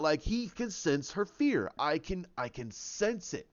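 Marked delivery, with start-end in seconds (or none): 1.8-3.5 lower, slow, gloating Kylo; villain taunts a frightened Rey, slow and low; smug villain. Retold or imitated. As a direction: savour each word like a predator. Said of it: "he's smiling".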